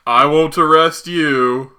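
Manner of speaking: slow, spaced-out bargaining; hammed-up measured proposal; mock deliberate offer. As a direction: lay out the terms very slowly. Mock Iron Man offering a deal.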